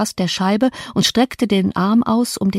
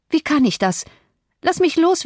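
tag; 8 semitones higher than usual. A narrator's reading. Terrified dreamer gripped by the ghost.

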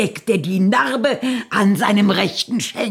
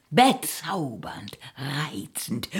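whisper; 3 semitones lower, 6 dB quieter than usual. Acted. Mutter ermahnt Tochter leise.

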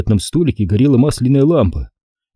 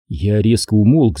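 plain reading voice

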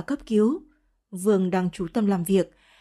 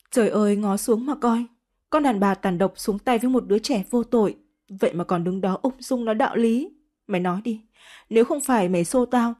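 raging accusation. Acted. Hysterical woman wails at Phúc An, building furious demand. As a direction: scream the demand for her child back.

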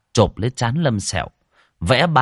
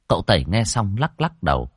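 usual speaking voice

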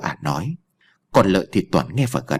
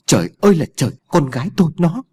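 wailing outcry; 7 semitones higher, faster than usual. A narrator's reading. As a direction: cry out as if the sky has fallen. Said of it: "Bà Phán gào lên". (gào lên thảng thốt, cao và to)

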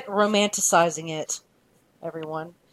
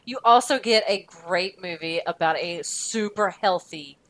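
sarcastic. Real, not acted. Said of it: "I was being really sarcastic".

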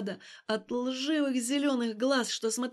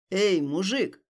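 calling out; 3 semitones lower, 4 dB louder, slower than usual. Acted. Passer-by calling out.

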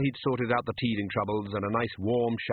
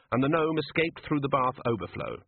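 plain reading voice

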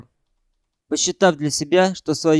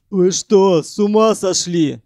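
louder, alarmed shout; 4 semitones higher, 4 dB louder than usual. A narrator's reading. Abram Yakovlevich shouting at Ukhan. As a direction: cry out in alarm. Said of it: "закричал Абрам Яковлевич".

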